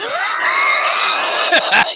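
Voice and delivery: high, loud burst of laughter; shrieking laugh. Real, not acted. Friends laughing at story.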